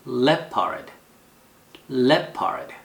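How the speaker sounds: "Leopard" as LEP-erd, falling; first-syllable stress. Shown as a demonstration. Teacher models animal name twice, first-syllable stress. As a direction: hit LEP in "Leopard", let the end drop. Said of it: "액센트가 이름절에 있어요".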